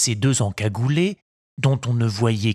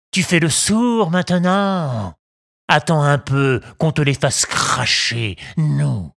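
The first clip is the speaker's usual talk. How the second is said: angry bandit; 3 semitones higher than usual. Acted. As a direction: scold the sly little thief. Bandit threatens again.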